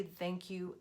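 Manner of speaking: a soft, sincere Thank you; genuine thanks. Shown as a demonstration. Coach showing how to thank a critic, sincerely. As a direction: say Thank you gently and meaning it. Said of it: "in a genuine way".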